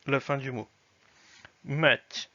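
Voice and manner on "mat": Mat with a palatalized, softened final t; soft ending. Shown as a demonstration. Teacher models the soft sign in Mat. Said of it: "sert à mouiller la fin".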